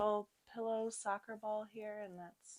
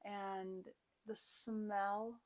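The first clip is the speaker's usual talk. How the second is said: guided yoga meditation. Real, not acted. Yoga teacher guiding students to set an intention, calm guided meditation. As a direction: settle the class gently into the practice.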